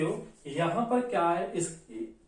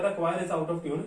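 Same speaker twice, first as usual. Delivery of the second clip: slow dictation; much slower than usual. Shown as a demonstration. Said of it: "जैसे हमने यहां पर लिख दिया".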